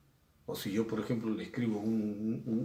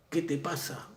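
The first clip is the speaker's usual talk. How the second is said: mildly raised, mock-angry "¿Qué te pasa?"; angry retort; 6 semitones higher than usual. Student snapping at his classmate, mock angry. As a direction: toss it out like an irritated student. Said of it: "le dijo airado el alumno".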